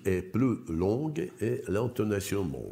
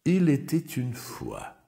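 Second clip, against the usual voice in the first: "Il était une fois" as one group, higher and louder; one rhythm group; 7 semitones higher, 3 dB louder than usual. Shown as a demonstration. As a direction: say "Il était une fois" as a single rising unit. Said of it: "Одна ритмическая группа". («Il était une fois» одной ритмической группой, выше и громче)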